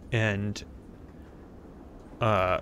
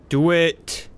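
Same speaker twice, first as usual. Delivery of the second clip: louder, higher egging-on; urging; 7 semitones higher, 7 dB louder than usual. Real, not acted. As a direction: push her to just go. Urging her to go.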